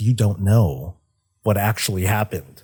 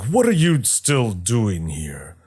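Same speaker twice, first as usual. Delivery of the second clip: booming voice; slower than usual. Retold or imitated. Titan booms at Illidan from behind, slow. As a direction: boom it out slowly from behind. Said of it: "a booming voice behind him".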